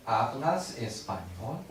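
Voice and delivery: "¿Hablas español?" said slowly, with a rise on español; slow question. Shown as a demonstration. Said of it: "I hear".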